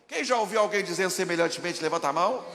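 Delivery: rally the whole church loudly; loud call to the crowd. Real, not acted. Pastor asks listeners to raise hands, loud rally call. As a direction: boom out the question, hands up.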